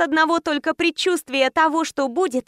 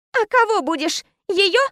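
mild shout; 5 semitones higher than usual. A narrator's reading. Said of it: "закричала".

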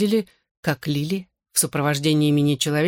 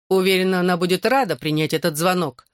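put-on French accent. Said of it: "сказала Лик голосом Жан-Пьера".

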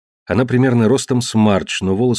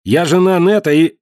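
raised, sharp shout; 9 semitones higher, 4 dB louder than usual. Acted. Marge to Walt, shouting at him not to meddle. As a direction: cut him off loudly.

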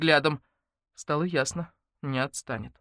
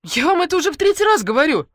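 much higher and louder, fed up; exasperated shout; 11 semitones higher, 8 dB louder than usual. Acted. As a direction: yell it, patience gone. Heroine loses patience with Arkady. (раздражённый крик)

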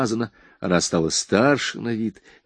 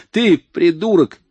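higher, louder, slower furious yell; furious shout; 9 semitones higher, 6 dB louder, slower than usual. A narrator's reading. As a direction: fling the insult back at him. Slapped woman shouts insult.

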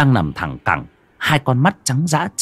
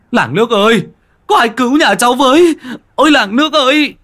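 much higher, loud desperate shout; crying for help; 6 dB louder than usual. A narrator's reading. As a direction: yell to the whole village for help. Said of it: "Anh đạp cửa xông ra ngoài".

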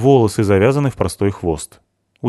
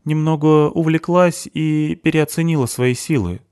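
mildly penitent, higher-pitched admission; 9 semitones higher than usual. A narrator's reading. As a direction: own up with a touch of remorse. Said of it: "покаянным тоном ответила Мерит". (слегка покаянным тоном)

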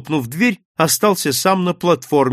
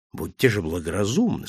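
low, soft reasoning; calm him down with a verbal shrug; quiet, composed admonishment; dismissive calm; 6 semitones lower, 5 dB quieter than usual. A narrator's reading. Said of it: "сказал он, пожимая плечами".

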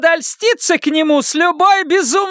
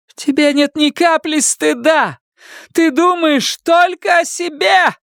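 much higher, slow furious yell; mother screaming at her selfish daughter, much higher; shouting. Acted. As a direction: hurl the accusation at her. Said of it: "прокричала Карла".

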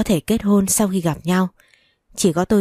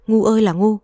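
exasperated scolding wail; 3 semitones higher, 4 dB louder than usual. Acted. Jailed mother wails at her pregnant daughter's foolishness. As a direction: throw up your hands and wail "ngu" at her.

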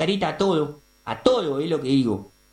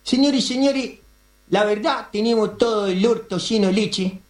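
high, raised speech opening; ranting opener; 5 semitones higher than usual. Acted. Editorialist starting his rant to the audience, high and raised. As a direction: launch into the editorial with fire.

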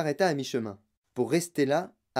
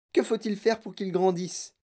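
higher-pitched helpless question; raised, worried appeal; lamenting plea; 4 semitones higher than usual. Acted. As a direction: implore with a touch of despair. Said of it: "se lamenta madame Tivy".

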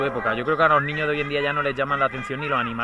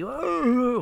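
mock moaning; 8 semitones higher, much slower than usual. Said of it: "especie de orgía sexual".

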